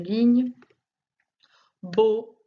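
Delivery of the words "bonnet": "Bonnet" as bo, pause, nnet; two separated beats on "Bonnet"; split into syllables. Shown as a demonstration. Teacher pointing out the second syllable, split into syllables. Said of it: "Deuxième".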